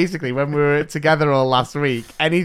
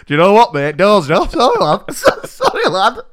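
mock tough talk; 4 semitones higher, 6 dB louder than usual. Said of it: "I should have been like".

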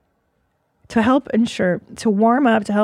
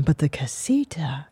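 whisper; 6 semitones lower, 7 dB quieter than usual. Pretend. Dreamy hush for quiet casita.

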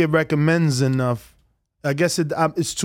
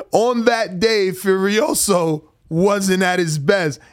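Kambosos; slower than usual. Retold or imitated. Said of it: "I just love your, uh, accent you do".

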